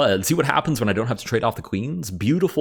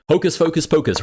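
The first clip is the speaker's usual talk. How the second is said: playful incantation; 8 semitones higher, 5 dB louder than usual. Pretend. Playful magic words before fast play.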